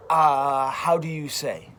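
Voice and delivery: a bad fake Italian accent, lightly done. Quoting an American actor doing movie Italian, in fake Italian accent. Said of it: "somebody says".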